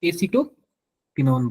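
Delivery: एसिटोफिनॉन drawn out slowly, syllable by syllable; slow spelled-out name. Shown as a demonstration. Teacher repeats the name slowly for the students. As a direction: stretch एसिटोफिनॉन out so the class catches each part. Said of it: "क्या बोलते हैं?".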